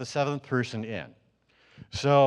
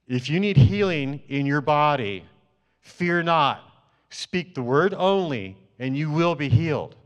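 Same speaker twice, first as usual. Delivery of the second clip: louder, firm prophetic pronouncement; strong authoritative voice; 2 semitones higher, 4 dB louder than usual. Retold or imitated. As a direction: proclaim it like God speaking through you. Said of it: "in a real strong, authoritative voice".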